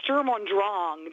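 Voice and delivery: "Sturm und Drang" slow and weighty, German rolled; dramatic German. Shown as a demonstration. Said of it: "I get into".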